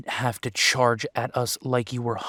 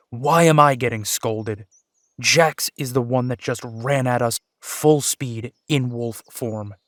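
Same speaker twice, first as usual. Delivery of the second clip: indignant protest; 6 dB louder than usual. Acted. Brother protests being scolded.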